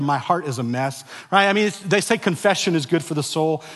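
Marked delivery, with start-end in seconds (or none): 0.0-1.0 quiet declaration. Shown as a demonstration. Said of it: "make that as a corporate declaration together".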